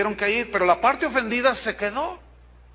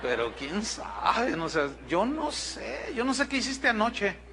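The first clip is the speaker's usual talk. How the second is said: misterioso. Pretend. Insinúa con tono misterioso.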